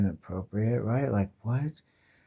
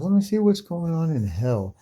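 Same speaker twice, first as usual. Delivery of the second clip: lightly voiced Doctor Strange; 6 semitones higher than usual.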